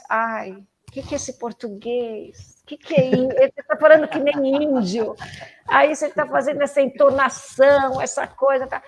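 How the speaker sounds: mildly horrified father, rising in pitch; retold horrified father. Father hearing daughter's Portuguese, mock horrified. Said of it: "ele tava horrorizado".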